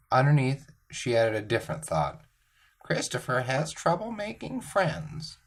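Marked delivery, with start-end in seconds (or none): 2.8-5.4 higher, slower, softer teacher voice; gently concerned teacher, slowly. Retold or imitated.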